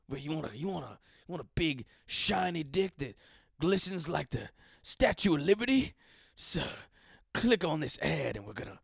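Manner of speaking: mock sales announcer, punching the selling words; lightly hammed-up commercial parody; ad pitch. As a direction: hawk it like a cheesy online ad. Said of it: "that's what the ads will say".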